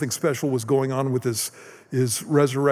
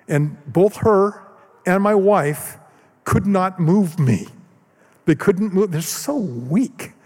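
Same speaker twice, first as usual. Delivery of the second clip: higher, louder, drawn-out punchline; amused teasing; 6 semitones higher, 4 dB louder, slower than usual. Real, not acted. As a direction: tease with glee, on the edge of laughing. Gleeful teasing punchline, ends laughing.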